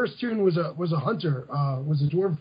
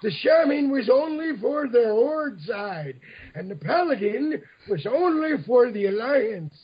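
put-on old person voice; 3 semitones higher than usual. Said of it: "Do I have to do the whole thing in the old".

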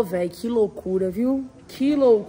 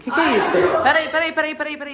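laughing, louder disbelief; laughing surprise; 4 dB louder, much faster than usual. Real, not acted.

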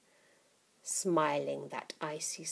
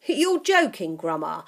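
put-on boy voice; 8 dB louder than usual.

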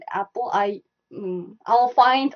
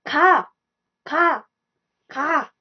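higher-pitched mock-angry command; rude, mad; 5 semitones higher, much slower than usual. Shown as a demonstration. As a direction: demonstrate a curt order to leave. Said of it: "a rude way".

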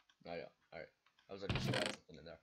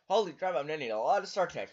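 surprised; 7 semitones higher, 12 dB louder than usual. Real, not acted. Shocked at needed materials.

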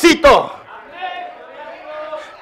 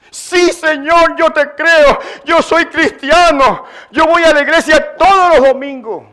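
acted believer listing credentials; eager assurance; 5 semitones higher than usual. Climber assuring the Lord he believes, eager assurance.

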